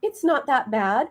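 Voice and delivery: very high, loud cheery brushing-off; dismissively positive. Retold or imitated. Mom brushing off crying daughter's scrape, over-positive. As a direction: play down a child's pain in a sing-song high voice. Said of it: "I was positive. I said".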